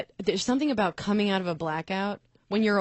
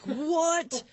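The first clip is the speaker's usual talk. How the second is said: startled what; 8 semitones higher than usual. Retold or imitated. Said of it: "And I was like".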